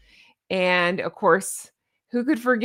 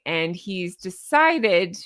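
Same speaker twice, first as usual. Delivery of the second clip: sarcastic; 2 semitones lower, much slower than usual. Real, not acted. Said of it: "I'm using that sarcastically".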